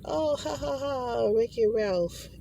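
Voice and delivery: high, fake little laugh into the joke; mock laugh. Joking about the hack, high mock laughing.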